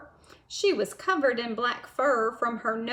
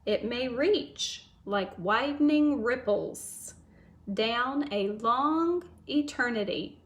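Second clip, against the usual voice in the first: poem read again. Shown as a demonstration. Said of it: "Let me read it one more time".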